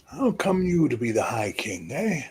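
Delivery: put-on old king. Old king summoning the young high king closer. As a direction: croak it out like an ancient ruler.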